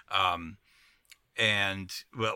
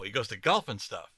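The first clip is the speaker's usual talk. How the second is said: mock indignant shout. Real, not acted. Mock outrage at plot hole.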